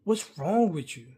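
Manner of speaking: loud, high-pitched angry telling-off; going off. Retold or imitated. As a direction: re-enact chewing someone out, hitting each refusal hard. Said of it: "going off on him".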